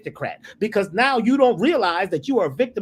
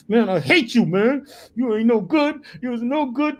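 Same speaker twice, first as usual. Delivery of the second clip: mock angry heckler; 4 semitones higher, 3 dB louder than usual. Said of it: "He says".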